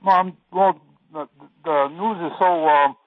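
tinny, muffled phone line; tin can phone. Real, not acted. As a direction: voice squeezed through a bad phone. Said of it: "it sounds like you're talking through a tin can".

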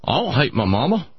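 lightly voiced Southern-style patient, "I don't hate my mama" with a rise on "don't"; a hint of a folksy patient insisting "I don't hate my mama"; patient's accent. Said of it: "how I'm able to do that accent".

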